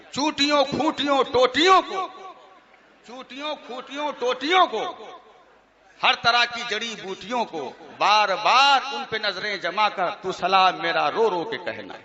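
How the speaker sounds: reciting absurd verses to an amused crowd; mock poem recitation. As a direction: rattle off the list in verse, amused. Recites mocked salaam verses.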